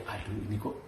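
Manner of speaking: lebih pelan dan rendah, seperti membatin; keluhan dalam hati. Retold or imitated. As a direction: tirukan pikiran yang enggan, lirih. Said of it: "saya pikir". (gumam enggan dalam hati)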